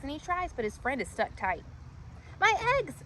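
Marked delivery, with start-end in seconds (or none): 2.4-3.0 sighing. Acted. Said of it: "sighs poor Fluff".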